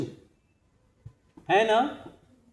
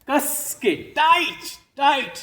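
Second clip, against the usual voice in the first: higher, forceful coaching call; urging on; 4 semitones higher, much slower than usual. Real, not acted. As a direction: urge the group to squeeze tighter. Urging group to clench fists.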